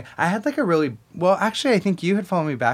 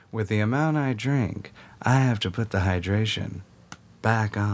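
Freckle. Acted. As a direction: stretch it out with affected gravity, pausing late. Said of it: "in the episode, it goes".

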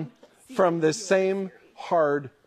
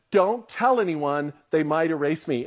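creepy secret; slower than usual. Retold or imitated. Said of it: "said something even creepier".

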